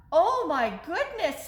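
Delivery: a touch of startled little owl; Percy. Acted. Baby owl finding mother gone, lightly voiced and high. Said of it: "said Percy".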